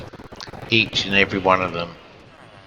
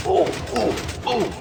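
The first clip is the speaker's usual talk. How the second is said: surprised; slower than usual. Real, not acted. Surprised at machine effect.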